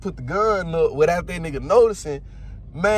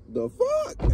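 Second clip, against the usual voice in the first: shocked; 3 dB quieter than usual. Retold or imitated. Shocked at being ordered out.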